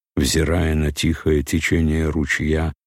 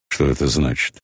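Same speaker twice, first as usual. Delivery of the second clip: сердито. A narrator's reading. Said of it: "спросил он сердито".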